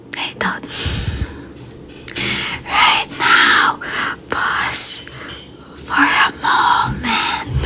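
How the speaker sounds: slow breathy whisper, meditation style; a slow, hushed whisper meant to soothe; soothing voice. Shown as a demonstration. Streamer practising a soothing voice for viewers, slow whisper. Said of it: "gusto nila yung soothing voice".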